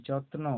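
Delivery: যত্ন with ত and ন both audible; both ত and ন sounded. Shown as a demonstration. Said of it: "তয়ের উচ্চারণ হবে".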